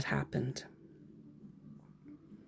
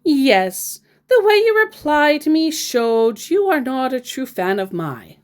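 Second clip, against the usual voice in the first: mock British scammer; 7 semitones higher, 5 dB louder than usual. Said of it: "you Brits all talk like this".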